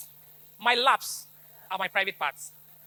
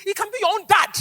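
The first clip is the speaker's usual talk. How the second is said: much higher and louder, pressing the point; emphatic shout; 9 semitones higher, 9 dB louder than usual. Real, not acted. Speaker warning parents, the abuser could be dad, urgent shout. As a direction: hammer home the warning.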